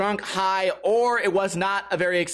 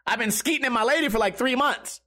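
lightly imitated buddy, pitched up; a hint of your friend's higher voice; 5 semitones higher than usual. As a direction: mimic a buddy casually confessing, voice raised. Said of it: "if you can picture his voice".

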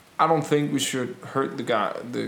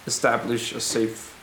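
rebel leader's speech. Acted. Rebel tells families to wait safely, measured reassuring speech. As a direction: reassure a crowd in measured phrases.

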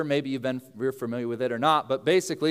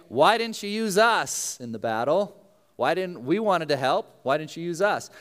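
higher-pitched whiny protest, stretched out; mock complaining; 5 semitones higher than usual. Men of Ephraim complain to Jephthah, mock complaining. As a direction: act out aggrieved complainers. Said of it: "complain to him".

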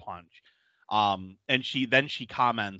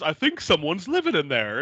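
mild mock yell; 6 semitones higher than usual. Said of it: "she yells to her friends".

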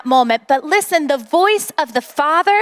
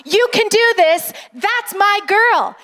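higher-pitched mild cheer; imitated sideline yelling; 4 semitones higher than usual. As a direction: cheer her on like a dad, half-yelled. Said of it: "he was standing on the sidelines yelling".

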